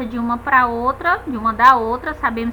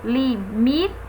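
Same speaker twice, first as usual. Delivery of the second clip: limite silabado, com apoio no MI; tônica em liMIte; 3 dB quieter than usual. Shown as a demonstration. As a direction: separe as sílabas de Limite, marcando o MI. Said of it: "a sílaba forte é mi". (li-MI-te, sílaba do meio destacada)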